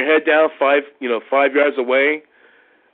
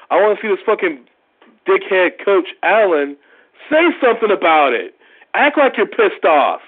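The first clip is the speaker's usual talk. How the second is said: rising, heated fan rant; a fan's rant building in heat; 4 semitones higher than usual. Real, not acted. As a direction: get worked up about the coach. Fan ranting about the coach.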